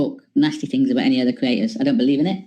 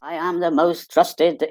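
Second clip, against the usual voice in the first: mock pompous boast; much slower than usual. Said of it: "other channels that only believe".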